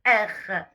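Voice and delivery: "R" made at the back of the throat; guttural French R. Shown as a demonstration. Teacher models French sound, "R" guttural and unrolled. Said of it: "c'est un son guttural".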